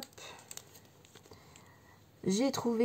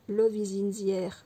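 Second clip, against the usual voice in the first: French accent English; 4 dB louder than usual. Real, not acted. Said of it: "avec mon accent".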